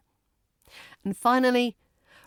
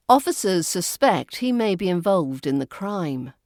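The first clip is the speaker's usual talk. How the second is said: usual speaking voice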